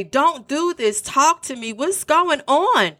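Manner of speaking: a hint of fear, slow on what's going on; pleading woman. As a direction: lightly act the frightened plea. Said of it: "heard a woman voice say".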